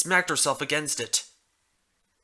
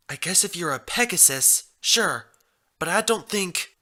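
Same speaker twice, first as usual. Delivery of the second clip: put-on young mare voice; 6 semitones higher than usual. Mare replies.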